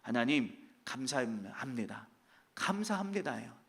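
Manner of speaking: quiet humble gratitude; grateful. Retold or imitated. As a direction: thank God gently and sincerely. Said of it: "투정하고 ... 원망하는 모습이 아니에요".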